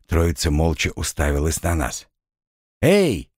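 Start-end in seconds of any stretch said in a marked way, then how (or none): 2.8-3.3 short, higher-pitched tentative call; hesitant call. A narrator's reading. Torn calls down the well to strangers, hesitant call. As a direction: call out, a little unsure. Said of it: "неуверенно крикнул Торн".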